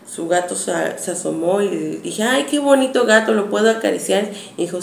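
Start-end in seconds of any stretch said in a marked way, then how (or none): 2.2-4.3 higher, gushing over the pretty cat; eager asking. Retold or imitated. Girl asking the neighbor to pet her cat, eager and high. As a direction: coo at the cat and ask to hold it.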